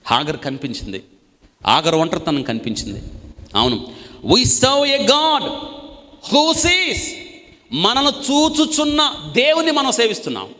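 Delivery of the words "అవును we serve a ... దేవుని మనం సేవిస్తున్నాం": high, loud, slow proclaiming; full-force preacher's cry; fiery preaching. Acted. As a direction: ring it out to the congregation. Preaching burst about the seeing God.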